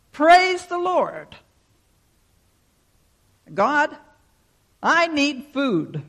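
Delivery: high, loud, slow cry to heaven; pleading shout. Acted. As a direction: shout the praise, then beg for help. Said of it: "and she shouted".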